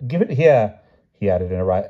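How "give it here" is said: higher, louder repeated demand; rising tone. A narrator's reading. King wants his poem back, tone rising higher. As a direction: press the demand, pitch climbing. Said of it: "added he in a rising tone".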